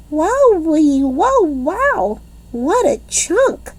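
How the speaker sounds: dazzled wowee. A narrator's reading. Junie B gushing over the handsome boy, dazzled.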